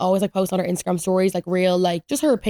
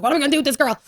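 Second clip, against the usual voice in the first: higher-pitched, mildly frantic quote; imitating freaked-out mom; 5 semitones higher, much faster than usual. Imitating mom worrying over her daughter, mildly freaking out. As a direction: mimic a mother at her wits' end. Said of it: "freaking out".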